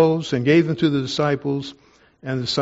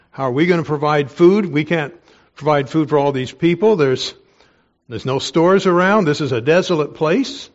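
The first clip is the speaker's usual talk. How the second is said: shocked protest; 2 semitones higher, 5 dB louder than usual. Acted. Acts out the shocked disciples' protest.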